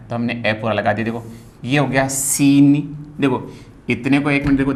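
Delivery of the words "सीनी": सीनी with a long drawn सी, short नी; demonstrated pronunciation. Shown as a demonstration. Teacher showing students how to say it, demonstrated pronunciation. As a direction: stretch the first vowel of सीनी. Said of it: "ध्यान दीजिए, आप ऐसे बोलिए".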